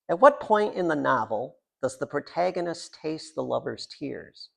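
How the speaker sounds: reciting lines from a poem; poem reading. Acted. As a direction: read it out like a question to the room.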